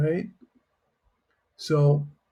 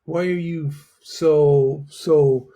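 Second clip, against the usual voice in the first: confused surprise; 2 semitones higher than usual. Shown as a demonstration. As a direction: sound baffled that they never tried it. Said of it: "It's kind of like confusion".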